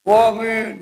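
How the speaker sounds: a loud, high bellowed "Amin"; imitating a congregant yelling amen; mock shouted amen. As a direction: holler the amen so the host hears. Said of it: "aminnya teriak".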